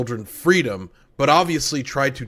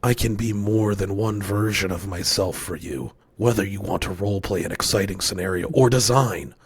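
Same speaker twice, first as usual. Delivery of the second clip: sultry voice; 3 semitones lower than usual. Pretend. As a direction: purr it like a seductive AI. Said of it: "in the sultry voice".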